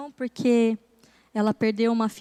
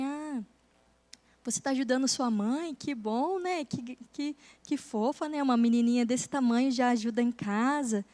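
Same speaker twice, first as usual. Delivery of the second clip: put-on gentle talk to a child; 4 dB quieter than usual.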